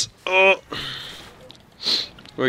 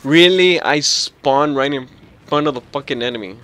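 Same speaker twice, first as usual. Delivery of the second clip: exasperated; 5 dB louder than usual. Real, not acted. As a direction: vent at the unfair spawn. Outraged at bad spawn.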